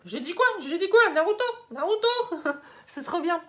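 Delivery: high, loud, gleeful outburst; giddy fan shout; excited cheering. Real, not acted. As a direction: pitch leaps up as you cheer for your favourite. Gleefully celebrating her favourite.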